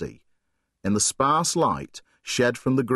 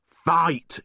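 repeated urging; 5 semitones higher than usual. Acted. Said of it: "she repeated".

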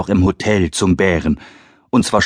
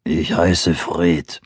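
low slow bear voice; growling bear; 4 semitones lower, much slower than usual. Acted. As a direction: rumble it like a big bear. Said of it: "sagte Fred".

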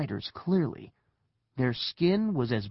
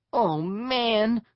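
high-pitched dismay; dismayed cry; 9 semitones higher, 3 dB louder than usual. A narrator's reading. Neil seeing the stairs vanish, high dismayed cry. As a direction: cry out as it goes wrong. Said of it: "Neil cried".

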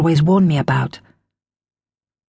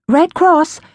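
muffled voice; 10 semitones higher, 4 dB louder than usual. A narrator's reading. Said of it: "a little muffled through the door".

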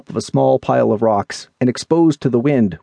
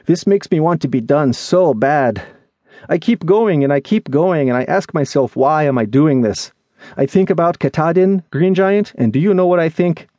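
higher character voice, worn down and venting; weary, pleading friend; 5 semitones higher than usual. Acted. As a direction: pour out exhausted frustration in a raised pitch.

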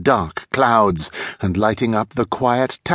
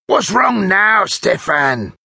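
high, exasperated character voice; put-on crook's voice, exasperated; irritated older thief; 10 semitones higher, slower than usual. A narrator's reading. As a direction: ask your partner with weary impatience. Older thief irritated with his partner.

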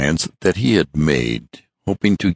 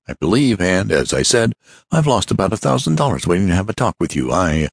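fussy hurried man; 4 semitones higher than usual. Acted. Hurried visitor talking.

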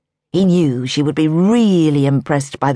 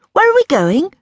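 put-on high young woman's voice; Daisy's voice; 13 semitones higher, 4 dB louder than usual. A narrator's reading. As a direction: lift it into Daisy's light curious voice.

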